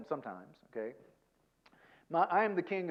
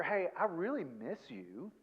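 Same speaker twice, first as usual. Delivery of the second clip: tender; 3 dB quieter, slower than usual. Shown as a demonstration. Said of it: "really hear".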